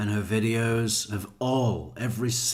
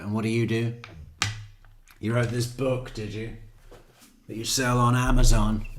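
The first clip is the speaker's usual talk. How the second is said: sarcastic mocking; 5 dB louder than usual. Mocking the famous anchor's sister.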